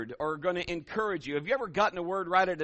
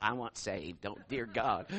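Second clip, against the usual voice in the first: panicked pleading; 8 semitones lower, 5 dB quieter, slower than usual. Retold or imitated. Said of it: "people are like".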